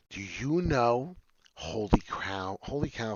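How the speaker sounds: slow and amazed; stunned. Real, not acted. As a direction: trip over words in surprise. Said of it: "you got me stuttering".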